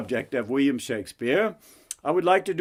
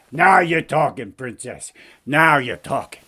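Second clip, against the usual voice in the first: wisecracking frog; 2 semitones lower than usual. Acted. Frog delighted with princess's offer, wisecracking frog voice. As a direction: play a streetwise talking frog.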